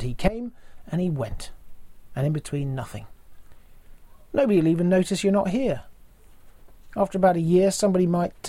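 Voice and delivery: lightly acted comedian's monologue, pitched a little up; a hint of a comic taking stock of a wasted life; Tony Hancock monologue. Preacher performing a comedian's famous reflection on life, lightly acted monologue. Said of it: "in his last T V monologue".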